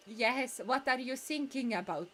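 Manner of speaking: put-on light joke German accent; attempted German accent. Player quoting a thinking-sinking joke, mock German accent. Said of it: "give them a German accent".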